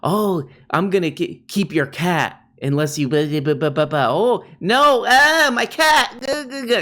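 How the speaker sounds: squeaky panicked mock voice rising into a wail; mocking a petulant streamer; mock whiny rant. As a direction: ham up a tantrum over a cat. Mocking whiny cat hostage quote.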